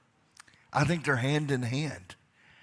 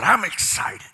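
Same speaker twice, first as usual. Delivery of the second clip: shouted, higher and louder; 6 semitones higher, 6 dB louder than usual. Real, not acted. Leader calling the crowd to shout, loud excited cry. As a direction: belt it out to the crowd. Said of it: "say real loud".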